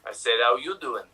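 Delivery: Acted. Improviser repeating his greeting, low cartoon voice. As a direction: drop it low as a cartoon character. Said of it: "what you gonna say, uh, Peter?".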